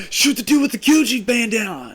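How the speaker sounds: high, lightly voiced kid giving orders; gang kid order. Kid in homeroom gang ordering a hit, lightly voiced. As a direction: bark the order like a tiny gang boss. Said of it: "they're gonna be like".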